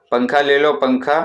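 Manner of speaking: mock hawker's call. Shown as a demonstration. Teacher shows class how the fan seller cried his wares, mock vendor call. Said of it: "इस तरह से वो चिल्ला चिल्लाकर आवाज़ लगाता था".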